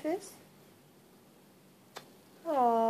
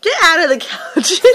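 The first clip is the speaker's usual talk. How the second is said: laughing. Pretend. Parent laughing, teasing.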